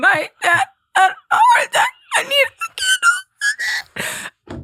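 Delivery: very high, slow, tearful, drawn-out crying whimper. Retelling a phone call asking for help, retelling whimpering on the phone. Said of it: "I'm whimpering on the phone".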